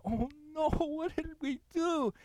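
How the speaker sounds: mock tearful regret; imitated dismay. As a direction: play a remorseful couple, half-hearted. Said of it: "the couples are crying".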